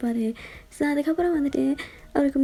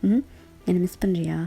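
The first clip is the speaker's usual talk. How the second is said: tender whisper; 4 semitones lower, slower than usual. Acted. Boyfriend softens to comfort.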